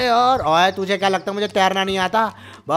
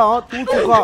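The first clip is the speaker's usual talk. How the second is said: teasing laugh; 3 semitones higher than usual. Acted.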